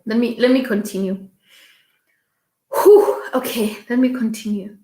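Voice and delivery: real welling-up, halting with long pauses; moved, breaking off to blow out a breath and carry on; emotional with gratitude. Real, not acted. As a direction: gather yourself between phrases, overcome with gratitude. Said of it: "the reason why I'm being emotional right now".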